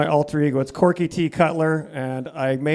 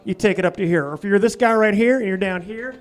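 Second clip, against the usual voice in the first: put-on raised-pitch hick Southern accent; Southern redneck voice; 4 semitones higher than usual. Corky the comedy persona, Southern accent sermon. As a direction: preach life tips as a Southern yokel. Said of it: "he kinda talks like this right here".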